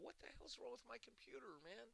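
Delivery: high, fast frantic squeak; hammed-up computer panic; mock frantic. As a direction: play up the panic in a thin, high voice. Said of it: "I thought".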